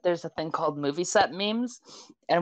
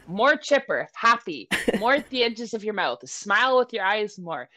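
lightly voiced micromanaging director, raised pitch; unforgiving director; 3 semitones higher than usual. Director coaching a commercial actor, mildly insistent. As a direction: fire off a list of nagging corrections. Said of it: "unforgiving director who's constantly telling him".

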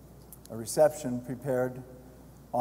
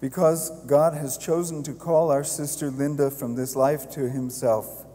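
solemn committal prayer, steady and louder; hushed graveside prayer; 4 dB louder than usual. Real, not acted. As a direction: intone it like a priest at the grave.

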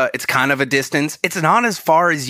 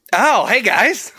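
put-on silly Canadian accent; 9 semitones higher, slower than usual. The speaker greeting the hosts in a silly Canadian accent. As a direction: burst in as an over-the-top cheery Canadian. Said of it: "let me get into character".

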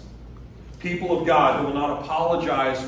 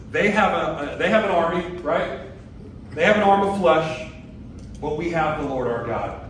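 emphatic retelling; 2 semitones higher than usual. Retold or imitated. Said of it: "He says".

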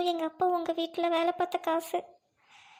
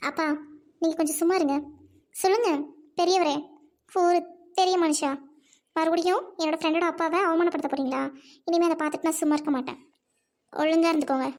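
angry confrontation. Acted. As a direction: stand up to him, voice raised. Confronts rich man for insulting father.

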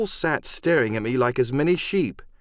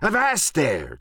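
higher-pitched pirate command; crying out; 6 semitones higher, slower than usual. Acted. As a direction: halt him as the captain. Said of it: "cried Silver".

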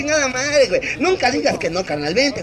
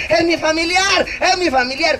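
mock yell, pitched higher; retold shouting; 4 semitones higher than usual. Clown retells forcing through onlookers, mock shouting. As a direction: cry out like pushing through a crowd, half full volume. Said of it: "Y que empiezo a gritar".

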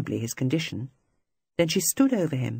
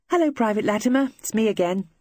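bright greeting, much higher and louder; cheery; 7 semitones higher, 4 dB louder than usual. A narrator's reading. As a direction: sing out a cheerful hello to cover dread. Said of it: "she said cheerily".

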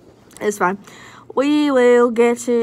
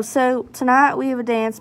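Southern accent. Shown as a demonstration. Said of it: "talk in a southern accent".

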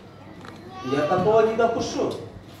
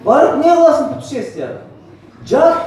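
mock scolding; 4 semitones higher, 5 dB louder than usual. Mocks relatives scolding him.

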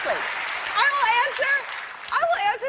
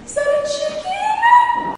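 high, slow, shocked question; drawn-out disbelief at the gift; 14 semitones higher, 7 dB louder, slower than usual. Real, not acted. Surprise gift reveal.

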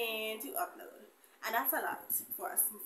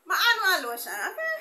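playful mock crying, higher and louder; mock whine; 8 semitones higher, 8 dB louder than usual. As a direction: whine about the lotion for fun. Joking about dry hands.

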